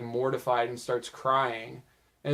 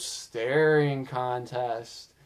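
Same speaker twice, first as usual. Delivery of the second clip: very slow, dazed and entranced; mesmerized; much slower than usual. Retold or imitated. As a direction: drag the words out slowly as if hypnotized. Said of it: "mesmerized version of Guilmon".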